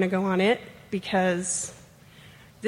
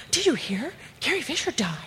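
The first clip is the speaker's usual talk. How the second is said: high-pitched retold coworkers; higher voice, passing on the news; imitated news-breakers; 6 semitones higher than usual.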